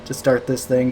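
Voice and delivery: out of breath from running. Real, not acted. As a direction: talk while still catching your breath. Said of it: "I'm still out of breath from running up the driveway".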